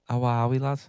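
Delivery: lightly put-on Irish greeting; a touch of Irish lilt; Irish accent. Greeting as Seamus, mild Irish accent. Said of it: "Oh, Irish is a belter".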